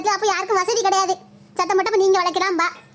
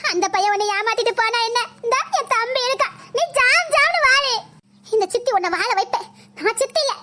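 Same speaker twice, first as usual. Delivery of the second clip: fake motherly pleading. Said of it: "என்ன நாடகம் ஆடில".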